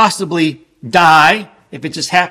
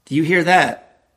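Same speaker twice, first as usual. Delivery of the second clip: normal talking voice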